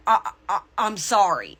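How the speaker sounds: stammered start, imitating a struggle to apologize; retold halting apology. Dreamer apologizes to the displeased woman, mildly halting. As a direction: stumble lightly on the first word, then get it out. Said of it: "had a hard time spitting it out".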